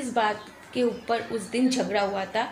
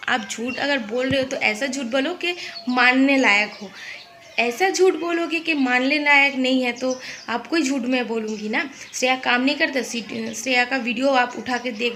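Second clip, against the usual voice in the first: heated complaint; 3 dB louder than usual. Real, not acted. Heated retelling of the argument.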